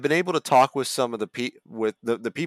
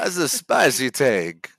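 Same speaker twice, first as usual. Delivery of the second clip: Latino accent; 3 semitones higher, 4 dB louder, slower than usual. Shown as a demonstration. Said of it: "Hey, that's Italian".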